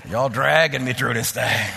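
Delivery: slow, low, drawn-out grumble; mock complaint. Real, not acted. Preacher to a congregation slow to say amen, mock complaint.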